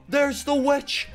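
very high, slow, gasping discovery; surprised gasp. Real, not acted. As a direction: blurt it out in shock, spotting her. First sees the witch boss.

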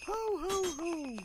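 Santa voice. Pretend. Playing Santa again.

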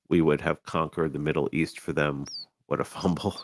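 nose whistling while talking; talking through a whistling nose. Real, not acted. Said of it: "Sorry, my nose is whistling".

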